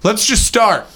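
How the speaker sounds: high, drawn-out cheeky demand; mock lively small talk. Partygoer quizzing a celebrity chef on his face, high and incredulous. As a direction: pitch it way up, stretching the question out. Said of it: "But Gordon Ramsay would be like".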